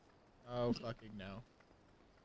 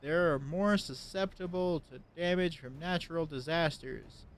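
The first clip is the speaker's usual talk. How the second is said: character voice reading dialogue; 6 dB louder than usual. Acted. Reads NPC dialogue aloud.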